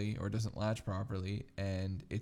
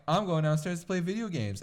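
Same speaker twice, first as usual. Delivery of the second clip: put-on excited kid; 8 semitones higher, 5 dB louder than usual. Kid self voiced in story.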